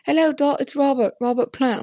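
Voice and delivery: quoting Robert. Retold or imitated. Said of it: "He's like".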